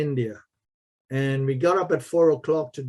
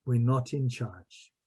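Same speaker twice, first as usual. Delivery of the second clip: solemn hush; 3 semitones lower, 6 dB quieter than usual. Real, not acted. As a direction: lower the voice to make a sacred point. Solemn spiritual point.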